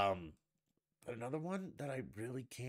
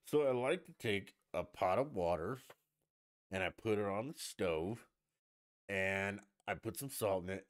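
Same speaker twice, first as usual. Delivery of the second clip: lightly mocked cook, lingering on the food words; imitating a celebrity TV cook. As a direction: put on her precious, deliberate recipe delivery. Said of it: "you know, and she's like".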